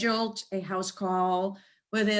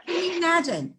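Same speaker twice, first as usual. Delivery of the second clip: quick, laughing, higher; laughing disbelief; 9 semitones higher than usual. Real, not acted. Amused disbelief at the dog.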